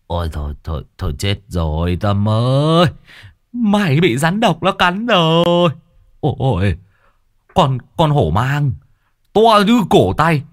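a hint of a fussing uncle in mock panic; lightly voiced alarmed uncle. Uncle Sáu fakes panic to scare Tâm, mock alarm. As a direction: feign alarm over the snake, rising at times.

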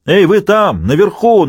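high, loud yell upward; straining shout. A narrator's reading. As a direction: shout yourself hoarse. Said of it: "надрывался Дагоста".

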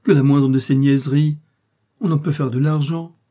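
high, loud scornful tirade; indignant outcry. A narrator's reading. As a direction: list his luxuries as accusations. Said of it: "s'écria-t-elle".

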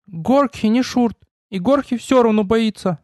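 high, squeaky, timid little goblin. Acted. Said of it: "пропищал тот". (пискливый голосок гоблина)

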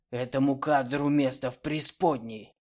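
inside a knight helmet. Acted. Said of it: "гулко ухнул из-под шлема".

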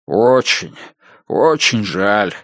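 lightly voiced sorry old gentleman; upset. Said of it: "огорчённо произнёс Холт". (огорчённо и медленно)

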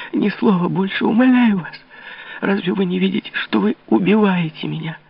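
high, begging plea; desperate pleading. A narrator's reading. Louise begging the king to stop his mockery, desperate. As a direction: beg him to stop, heartbroken.

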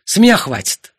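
angry husband shouting at his wife; outcry. Acted. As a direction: burst out at his wife, fed up. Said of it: "вскричал Артур".

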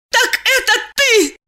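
high, shrieking accusation; furious shout. A narrator's reading. Diana turns on Eliseev, furious shout. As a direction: scream the accusation. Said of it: "закричала она".

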